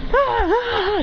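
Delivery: high repeated "ah"; high, mock cries of two rivals; acted quarrel cries.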